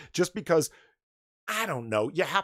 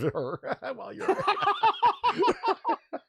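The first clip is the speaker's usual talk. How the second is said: reading through laughter; 4 dB louder, much slower than usual. Real, not acted. Reads tweet while laughing.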